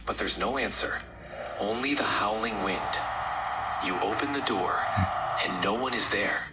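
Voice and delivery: understated ominous storytelling; creepy horror narration. Acted. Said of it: "let's amp up the creepiness".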